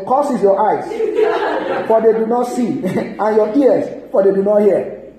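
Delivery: mock curse in Moses's manner; Moses's cursing version. Preacher parodies Moses cursing the listeners, mock stern. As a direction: pronounce a curse, amused and emphatic. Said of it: "If it's Moses, he will have said".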